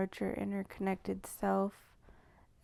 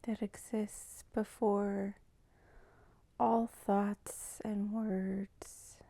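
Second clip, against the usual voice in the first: slow, measured meditative intro with long pauses; guided meditation; slower than usual. Real, not acted. Welcoming listeners to tune into primordial flows, slow meditative delivery. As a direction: draw each phrase out slowly, leaving space between. Opens a guided tuning-in practice.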